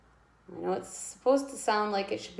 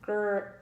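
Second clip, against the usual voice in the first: long growling "Grrr" for the G R blend; teacher demoing the gr sound; growled grrr. Shown as a demonstration.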